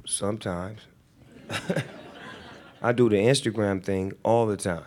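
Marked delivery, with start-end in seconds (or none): 2.8-4.8 laughing. Real, not acted. Laughing reply to Twitter question.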